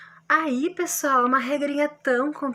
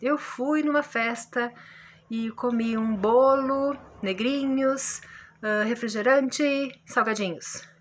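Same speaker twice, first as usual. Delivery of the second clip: listing example. Shown as a demonstration. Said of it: "Ou também enumeração".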